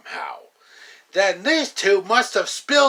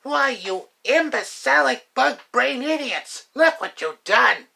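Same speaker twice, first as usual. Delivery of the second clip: angry outburst; 4 semitones higher, 3 dB louder than usual. Acted. Villain berating bungling henchmen.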